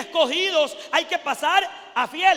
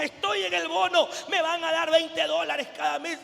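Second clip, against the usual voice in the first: a touch of higher-pitched happy boasting; delighted, imitated; 4 semitones higher than usual. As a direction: lightly mimic overjoyed church members. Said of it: "Venían hermanos contentísimos". (imitando alegría, contentísimos)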